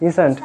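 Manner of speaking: "Isn't" said as one word, IZ-unt; contracted pronunciation. Shown as a demonstration. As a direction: show the learner the short form "Isn't". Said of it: "উচ্চারণটা কেমন হয়?".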